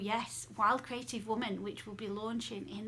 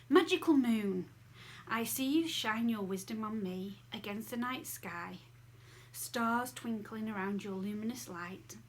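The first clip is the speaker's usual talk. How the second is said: poem reading. Acted. Reads her own moon poem.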